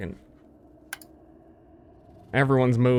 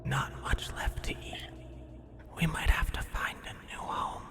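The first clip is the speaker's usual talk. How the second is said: hushed, breathless creature whisper; whispering rat; 5 semitones higher, 10 dB quieter than usual. Acted.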